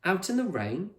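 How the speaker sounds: high disbelieving question; can't believe the idea; incredulous Con. A narrator's reading. Con doubting playing in rain, incredulous.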